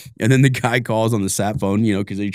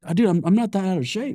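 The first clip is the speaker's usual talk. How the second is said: mock winded denial; 8 semitones higher, 3 dB quieter than usual. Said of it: "be like".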